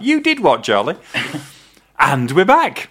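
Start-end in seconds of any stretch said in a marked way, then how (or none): 0.0-1.0 much higher, laughing disbelief on did; hammed-up outrage through a laugh; mock shocked. Shown as a demonstration. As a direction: gasp it out like he's scandalised. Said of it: "I ought to start like that".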